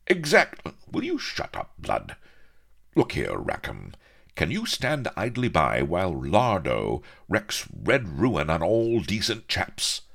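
high, loud indignant appeal; exasperated officer hero. A narrator's reading. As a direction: snap at the interruption, then plead earnestly.

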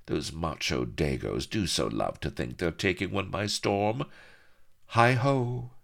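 lightly voiced, lilting grand lady; swooping, self-pleased chatter to a maid; airy scheming mistress. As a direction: chatter airily as you plan a seduction. Acts the lady with her maid.

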